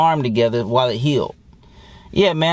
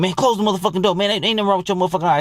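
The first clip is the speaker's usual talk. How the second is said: higher, rushed mock stepdad brushing it off; dismissive stepdad; 5 semitones higher, much faster than usual. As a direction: toss it off fast like an annoyed stepdad. Stepdad's dismissive quote voiced.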